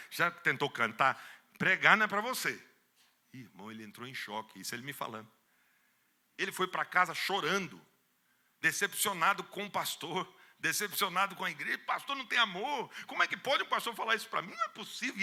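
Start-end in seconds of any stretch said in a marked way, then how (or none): 0.1-2.6 louder, scornful put-down; sneering verdict, raised voice; mocking dismissal. Pastor mocking the young preacher. 11.8-15.2 high, outraged protest; wounded, heated disbelief; indignant complaint. Retold or imitated. Indignant young man complaining.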